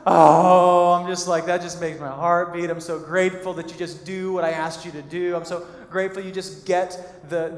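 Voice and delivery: loud, gushing mock thanks; sarcastic gratitude. Wife sarcastically thanking husband for the blender, mock gushing. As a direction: overdo the delight to show it's hollow.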